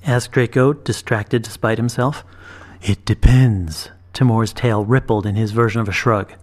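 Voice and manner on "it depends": put-on slow, lower, measured old dragon. A narrator's reading. Dragon praising the girl's sight, slow and low. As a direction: speak like a wise patient beast.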